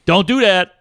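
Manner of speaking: a touch of a scolding guard; stern teacher. Retold or imitated. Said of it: "I thought he was mad, like a teacher".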